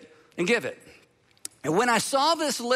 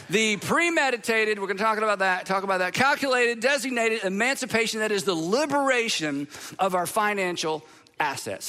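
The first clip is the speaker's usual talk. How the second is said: milking the applause; 2 semitones higher than usual. Shown as a demonstration. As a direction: play it up for applause. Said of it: "Hold your applause".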